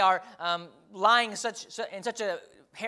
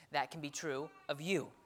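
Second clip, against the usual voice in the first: ordinary talk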